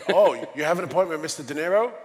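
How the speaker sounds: mock-impressed, quick rising question; suddenly deferential receptionist, retold with amusement; impressed surprise.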